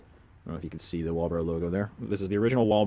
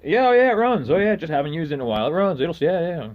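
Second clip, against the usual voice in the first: seller voice; 8 semitones higher, 7 dB louder than usual. Retold or imitated. Seller's sales pitch quoted.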